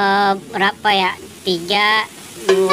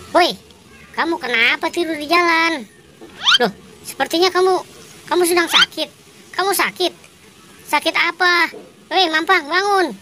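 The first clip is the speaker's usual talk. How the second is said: alarmed calling; 7 semitones higher than usual. Acted. Finds friend lying in road.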